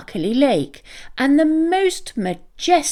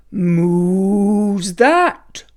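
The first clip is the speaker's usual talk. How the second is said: lightly voiced cow; 3 dB louder than usual. A narrator's reading. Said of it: "called Cow".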